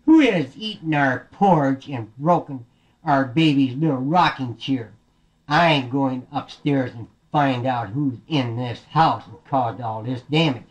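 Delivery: slow, deliberate mild indignation; a touch of stern papa bear; mildly angry Daddy Bear. Acted. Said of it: "I'm getting mighty angry now".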